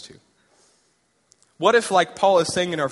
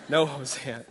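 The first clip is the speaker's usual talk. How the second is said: laughing God line; 3 semitones lower, 4 dB quieter than usual. Acted. God declining Hosea while the preacher laughs. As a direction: lower voice breaking into laughter.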